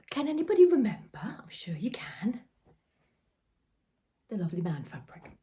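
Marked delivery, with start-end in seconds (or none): 0.1-1.2 higher, louder teasing question; playful call-out. Real, not acted. 1.2-2.4 slow teasing whisper. Real, not acted.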